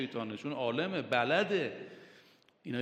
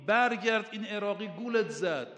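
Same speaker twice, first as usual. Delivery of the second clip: raised, louder call; retold shout; 5 semitones higher, 3 dB louder than usual. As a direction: call out after him, mock alarm. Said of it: "عمرو عاص فریاد زد".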